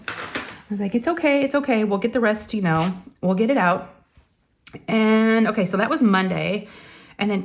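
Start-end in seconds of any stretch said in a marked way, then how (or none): 0.9-3.9 soothing mom. Retold or imitated. Mom soothing crying daughter.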